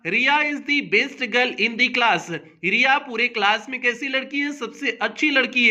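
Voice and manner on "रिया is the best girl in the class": very slowly, word by word, dictating an example sentence; slow dictation. Shown as a demonstration. Teacher reading an example sentence to students, slow and deliberate. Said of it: "जैसे हो गया".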